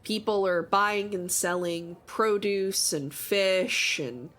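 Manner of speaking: measured scene-setting narration; storyteller GM voice; game master narration. Acted. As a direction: paint the market for the players. GM describes market scene.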